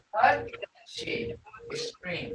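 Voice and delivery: "Pudgy" as the scream word. Shown as a demonstration. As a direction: give "Pudgy" the high tone of scream. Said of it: "This is what tones are going to do".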